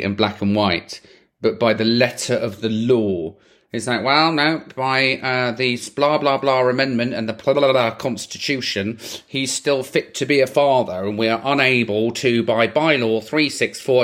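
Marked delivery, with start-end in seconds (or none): 4.0-14.0 mock legal jargon in an English accent; lightly put-on English official voice. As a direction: recite statutes in a stuffy English accent. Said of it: "I don't know why I'm speaking in an English accent".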